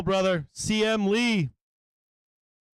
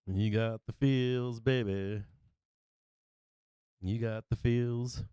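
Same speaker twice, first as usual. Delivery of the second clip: choked up; 7 semitones lower, 6 dB quieter, slower than usual. Real, not acted. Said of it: "All right, I'm crying now".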